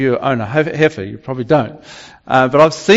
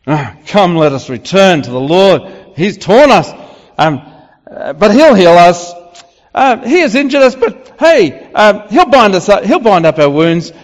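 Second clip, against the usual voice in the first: sarcastic reading; 2 semitones higher than usual. Shown as a demonstration. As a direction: toss the promise off casually, not meaning it. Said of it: "this is said sarcastically".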